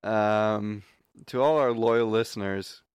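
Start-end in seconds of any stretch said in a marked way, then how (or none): 1.3-2.8 stiff reading aloud, like school intercom; school announcement voice. Acted. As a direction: read it like a principal on the PA. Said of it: "talking like you're reading a school announcement".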